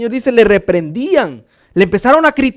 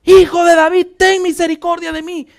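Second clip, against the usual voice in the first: loud, high beggar's plea; imitated full-force cry; 6 semitones higher, 4 dB louder than usual. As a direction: cry out with all your strength, acting the beggar. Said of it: "con todas sus fuerzas, clamó y dijo". (clamor imitado a toda fuerza)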